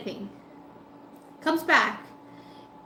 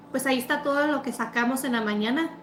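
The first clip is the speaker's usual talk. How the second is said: fast, dismissive imitation; rude tone; faster than usual. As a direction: rattle it off like a dismissive clerk. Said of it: "not even exaggerating or kidding on the fucking tone".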